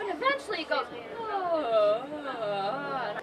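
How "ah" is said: smoothed ah. Shown as a demonstration. Teacher shows the smoothed-out ah after practice. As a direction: let the ah come out smooth. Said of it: "I can smooth it out".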